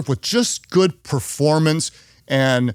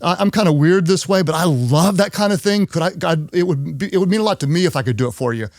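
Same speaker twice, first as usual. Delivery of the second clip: higher, eager pleading; eager teammate; 4 semitones higher than usual. Retold or imitated. Adrian offering help to her boss, eager and higher. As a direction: talk him into letting you help. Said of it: "She's like".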